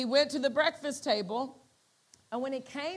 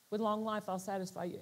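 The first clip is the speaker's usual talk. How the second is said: low and much softer; calm quiet voice; 4 semitones lower, 7 dB quieter, faster than usual. Retold or imitated. The small voice in his heart, calm and quiet. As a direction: breathe it gently. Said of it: "just calm, quiet".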